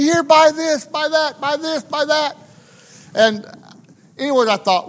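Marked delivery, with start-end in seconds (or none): 0.0-2.4 high, repetitive hawker's patter; pitched-up mock sales badgering; pestering street peddlers. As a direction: imitate peddlers crowding in with their wares. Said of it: "people are just attacking me".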